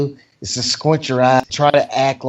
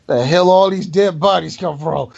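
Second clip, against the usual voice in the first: mock shouted question. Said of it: "they ask the question".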